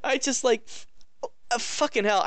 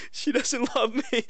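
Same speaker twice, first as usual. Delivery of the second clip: slow whiny hero moan; mock sulky hero; 4 semitones higher, slower than usual. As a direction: drag it out like a moping hero. Mocking the hero's angst.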